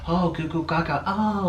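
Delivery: high mock baby-talk cooing. Partner fussing over the borrowed bird, in mock baby talk. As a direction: coo at the bird like a doting dad. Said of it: "and Orlin was sitting here".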